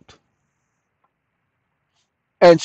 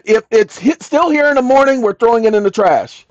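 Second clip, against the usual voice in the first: mock warden threat; 5 semitones higher, 4 dB louder than usual. Warden threat voiced in story.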